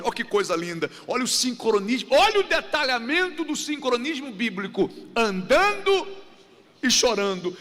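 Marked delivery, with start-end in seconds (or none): 5.1-7.5 andando hit high and loud, then chorando; emphasis on andando. Shown as a demonstration. Preacher stressing the verse to the congregation, high emphatic andando. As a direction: stress the word andando strongly. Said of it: "a Bíblia é com ênfase".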